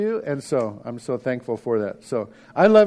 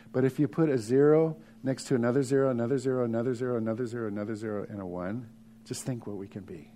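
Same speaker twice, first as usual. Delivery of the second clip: softer and softer with each zero; fading away; 4 semitones lower, 6 dB quieter, faster than usual. Acted. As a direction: let each zero drop quieter. Fading repetition for effect.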